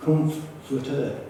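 comforter said slowly, split into com and forter; Latin word pronunciation. Shown as a demonstration. Preacher explaining where the word comes from, slow Latin pronunciation. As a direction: draw out comforter as a Latin root. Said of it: "comes from the Latin word".

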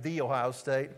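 "The" pronounced THEE before Ohio State; emphatic definite article. Retold or imitated. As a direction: stress "The" as THEE. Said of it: "that little definite article means".

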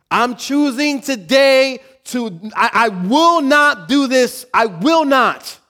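high, loud, slow vow; loud resolve. Acted. Preacher voicing a believer's vow, loud and slow. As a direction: declare it slowly with full force, voice up high.

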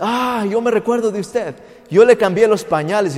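a hint of a little old lady recognising someone; lightly voiced old lady. Old lady recognising a grown child she cared for, mildly exclaiming. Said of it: "me encuentro unas ancianitas".

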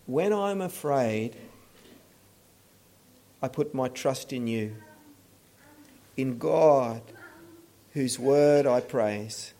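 low, measured scripture reading with long pauses. Retold or imitated. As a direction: read it as a calm, settled declaration of trust. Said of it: "an expression of trust".

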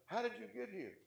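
high-pitched mock interrogation; exasperated demand. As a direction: press the question in acted bafflement. Head angel repeats his question.

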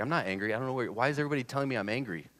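quickening, rising mock exasperation; lightly acted indignant denial; retold defensive protest. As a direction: protest the charge, speeding up into the question. Retold defensive protest about anger.

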